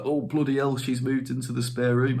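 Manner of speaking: a hint of a northern English accent, lightly done; mild northern English accent on a mock gasp. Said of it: "I keep going northern".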